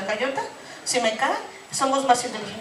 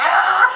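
excited yelp; 6 semitones higher, 9 dB louder than usual. Real, not acted. Hyping a woman in audience.

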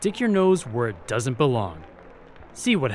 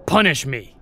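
rising, louder exasperated plea; exasperated outburst; 5 semitones higher, 5 dB louder than usual. Acted. Spy snapping at the princess, begging to be let go, exasperated and loud. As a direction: throw it at her, fed up and begging.

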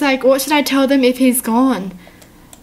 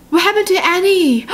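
gasp, then higher-pitched alarm; alarmed shock; 6 semitones higher than usual. Real, not acted. Reader fearing for Annie, gasping alarm.

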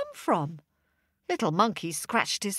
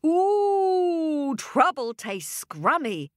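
monkey voice; 7 semitones higher, slower than usual. A narrator's reading. Monkey tasting honey.

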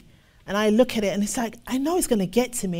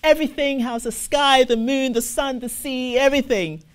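bright, quick list of pleasantries, first much louder and higher; mock small talk; 3 semitones higher, 3 dB louder than usual. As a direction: chatter about everything but scripture. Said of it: "we don't even talk scriptures anymore".

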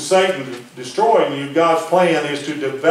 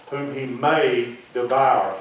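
slow phrase with MAY held long; stress on MAY; 2 semitones lower, slower than usual. Shown as a demonstration. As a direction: stretch out "may" for emphasis. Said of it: "Place your emphasis on the word little".

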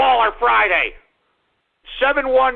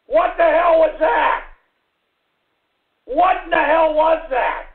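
outraged shout; 4 semitones higher than usual. Real, not acted. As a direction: yell it in disbelief. Outraged at callers' sounds.

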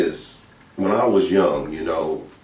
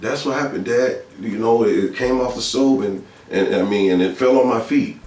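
higher-pitched halting excuse; retold child's excuse; 4 semitones higher than usual. Boy sticking to his story with dad, high halting excuse. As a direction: stumble through a cover story, pitched up.

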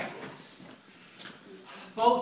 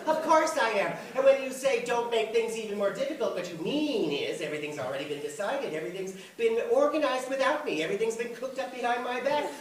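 raised, higher voice of grievance; indignant mother; 4 semitones higher than usual. Acted. Mother accusing her son on the phone, indignant. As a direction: pile up the complaints at a higher pitch.

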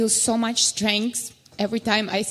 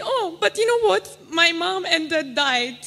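put-on casual little girl; 4 semitones higher than usual. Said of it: "And she's saying".

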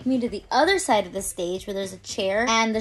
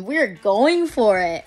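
slow, drawn-out, resolute; determined; 5 dB louder, much slower than usual. Retold or imitated. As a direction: dig in and commit to it. Hyping herself up, tired.

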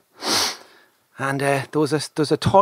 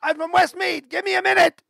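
put-on Westmeath accent. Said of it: "country accent, Westmeath".

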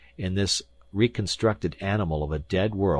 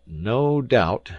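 humouring tone; 6 semitones higher, 6 dB louder than usual. A narrator's reading. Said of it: "as one humours an imbecile".

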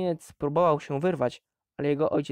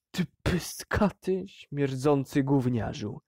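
roared; slower than usual. Acted. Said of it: "ryknął Hearst".

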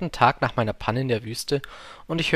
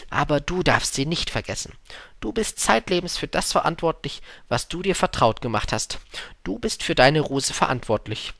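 higher-voiced fox sharing a secret; solemn fox in a raised voice; wise fox; 4 semitones higher than usual. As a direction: impart it earnestly, pitched up.

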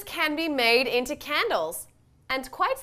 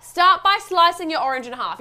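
put-on British accent; 3 semitones higher, 5 dB louder than usual. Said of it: "Your accent is wildly inaccurate".

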